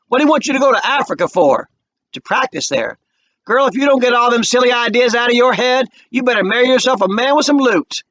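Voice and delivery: high, loud scolding; scolding Mama. A narrator's reading. Mama scolding her daughter about going to Africa.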